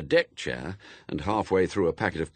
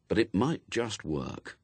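ordinary delivery

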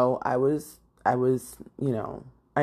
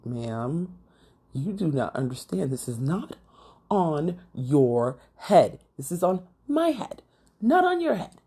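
mock-stern correction, word by word; retold indignant retort. Daughter answering her mom's calming, indignant. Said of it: "I'm looking at her like".

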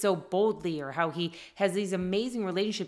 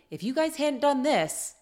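raised, higher-pitched blaming tone, lightly played; mock blaming parent; 5 semitones higher than usual. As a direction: imitate a parent snapping blame at the kids, half-hearted. Mother blaming kids while yelling.

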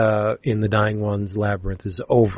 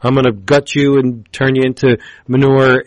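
louder, gloating mock villain; hammed-up villain show; 3 semitones higher, 5 dB louder than usual. Humongus gloating at his eternal enemy, louder hammed-up villain. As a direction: play the big bad for show. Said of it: "Humongus puts on a good show".

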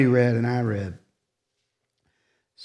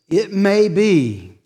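slow emphasis; 5 semitones higher, 4 dB louder, much slower than usual. Real, not acted. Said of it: "I want to say this".

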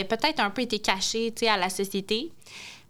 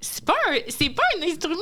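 laughing; 8 semitones higher than usual. Real, not acted. Laughing protest over mandoline.

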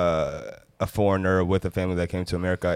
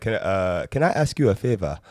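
African accent try. Shown as a demonstration. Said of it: "Did I do that one right?".

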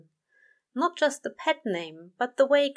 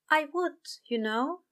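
newfound confidence; 9 semitones higher than usual. Acted. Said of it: "full of newfound confidence".

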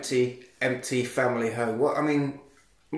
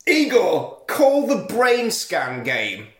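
mock command to phone; 6 semitones higher, 3 dB louder, much slower than usual. Imitating Furlong talking to his phone.

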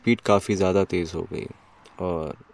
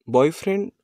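high rising disbelieving question; incredulous echo; 8 semitones higher than usual. A narrator's reading. Girl echoing his boyfriend question in disbelief. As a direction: throw the word back at him, amazed.

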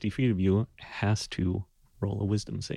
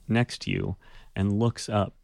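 normal talking voice

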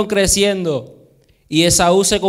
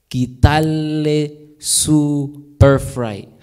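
slow; 3 semitones lower, much slower than usual. Acted. Drawing out Jacob's plan.

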